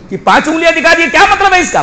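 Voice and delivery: high-pitched, troubled questioning; perplexed. Acted. Troubled caliph puzzling over five fingers, perplexed. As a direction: wonder aloud in agitated puzzlement. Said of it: "اب یہ بڑا پریشان".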